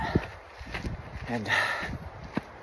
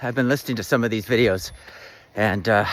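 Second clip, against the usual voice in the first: breathy voice; 4 semitones lower than usual. Real, not acted. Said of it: "apologies for the breathy voice".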